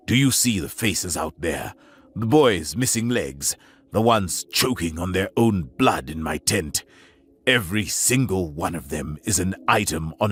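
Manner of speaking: low, cold and cutting; cold contempt. Acted. Captain blaming the alien, low and cold. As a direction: lay the blame coldly. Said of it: "colder than any winter wind".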